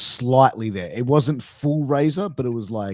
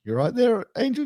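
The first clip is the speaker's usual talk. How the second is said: imitating Razor's accent; 11 semitones higher, faster than usual. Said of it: "he had tinges of the accent there".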